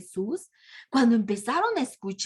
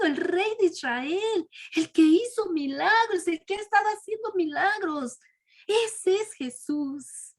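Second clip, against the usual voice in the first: raised, eager voice of a believing crowd; joyful crowd; 3 semitones higher than usual. Retold or imitated. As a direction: proclaim him like an excited crowd. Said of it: "y decían". (multitud que proclama con entusiasmo)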